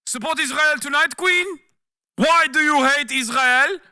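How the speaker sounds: high, rising Dr. Seuss-style grilling; mock sing-song questioner. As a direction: camp quizmaster voice, ending on a squealed Queen. Reading mock leaked debate questions.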